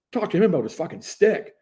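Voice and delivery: high, loud furious complaint; angry protest. Retold or imitated. Ejected player argues with referee, furious. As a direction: vent at the ref.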